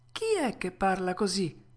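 a touch of frozen fear; mild fright. Acted. Puppet questions an unknown voice in the dark, mildly frightened. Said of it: "sentendosi gelare dallo spavento".

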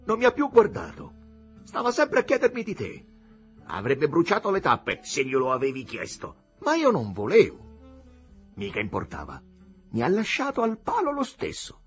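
high, loud aggrieved outburst; crying out accusingly. A narrator's reading. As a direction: pour out the jealous complaint. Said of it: "gridò Jim". (sfogo geloso ad alta voce)

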